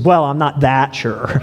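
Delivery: owning up through a laugh; sly, laughing confession; laughing admission. Retold or imitated. Electrician admits his doubt to the foreman, laughing. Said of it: "He says".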